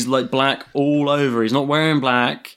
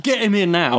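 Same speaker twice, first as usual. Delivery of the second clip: higher-pitched incredulous demand; 6 semitones higher than usual. Retold or imitated. Quoting the caller's plea for help, incredulous. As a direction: imitate a caller who can't believe it. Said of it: "he's like, incredulous".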